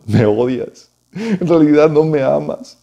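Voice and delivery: lightly theatrical, drawn-out wail of a wounded wife; mock tearful pleading. Samson's wife throws herself on him weeping, mock tearful. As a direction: imitate a wife tearfully guilt-tripping, words stretched. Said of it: "se tiró sobre él llorando y le dijo".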